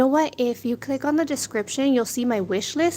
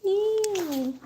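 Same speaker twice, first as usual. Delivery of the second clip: disgusted; 9 semitones higher than usual. Real, not acted. Disgusted reaction.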